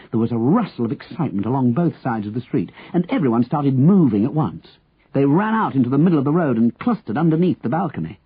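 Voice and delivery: plain reading voice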